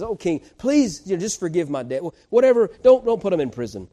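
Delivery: pleading servant, pitched high and loud in the cracked moments; begging servant. Retold or imitated. Servant begging the king to forgive his debt, high and pleading. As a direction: play the debtor on his knees, begging hard. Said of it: "the man falls and begs at his feet".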